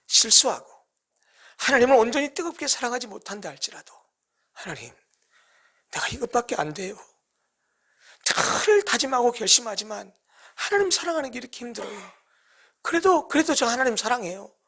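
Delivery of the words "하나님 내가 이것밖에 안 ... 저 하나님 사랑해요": soft, humble prayer; tender confession. Retold or imitated. Believer admitting weakness to God, soft tender plea. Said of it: "라고 하나님 앞에 나오면".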